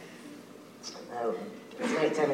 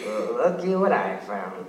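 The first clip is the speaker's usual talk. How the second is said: lightly voiced giant; 5 semitones lower than usual. Giant speaks.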